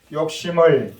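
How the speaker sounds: measured lead line, punched for repetition; feed it firmly for the group to echo; leading a recitation. Real, not acted. Pastor leads children in repeating a saying, measured and firm. 우리 같이 합시다.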